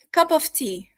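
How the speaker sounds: "cup of tea" with a fully sounded "of"; basic full pronunciation. Shown as a demonstration. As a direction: say "cup of tea" word by word, keeping the v in "of". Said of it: "very basic way of saying it".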